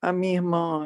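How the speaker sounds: plain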